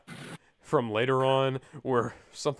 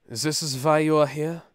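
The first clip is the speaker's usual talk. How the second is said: villain voice; 2 semitones higher, 5 dB louder than usual. A narrator's reading. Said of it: "he asked".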